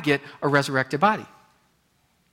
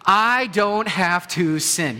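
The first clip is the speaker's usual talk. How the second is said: slow, emphatic declaration, a touch higher; with more gusto; 4 semitones higher, much slower than usual. Shown as a demonstration. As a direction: say it like good news. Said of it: "Let's say it with a little more gusto".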